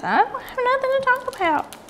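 very high, squeaky mock protest; telling her friends. To her friends, a very high, squeaky mock denial. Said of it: "That's what I tell my friends".

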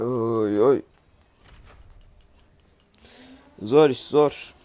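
loud weary grumble over endless gathering; loud groaning complaint. Real, not acted. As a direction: moan out how hard the grind is. Tired of grinding for materials.

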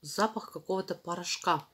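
chewing between words; talking while chewing chalk. Real, not acted. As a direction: mouth full of chalk paste. Seen 1: White chalk paste visible in mouth; chalk chunk held while talking.

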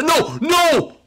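high, stretched cry of no; dismayed yell. Real, not acted. Player choking the jump at the end, dismayed yell. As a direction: wail at a last-moment slip.

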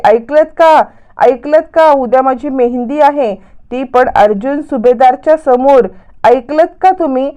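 acted public announcement, lightly called; mild mock shouting. Priya baits Sayali outside her room, mild mock shouting. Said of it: "ओरडायला लागते".

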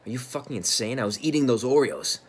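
loud, high-pitched angry outburst; incredulous, indignant yelling that swells to the end; outraged shout. Acted. Acted outburst over eaten Oreos.

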